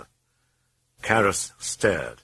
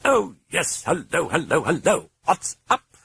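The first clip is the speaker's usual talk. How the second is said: high, loud, cheery British voice; gleeful sing-song hellos; happy greeting; 11 semitones higher, 3 dB louder than usual. A narrator's reading. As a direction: chirp it brightly. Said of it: "it said happily".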